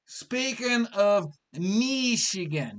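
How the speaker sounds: slowed-down "speaking of Michigan" in a put-on voice. Shown as a demonstration. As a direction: repeat it slowly in a different voice.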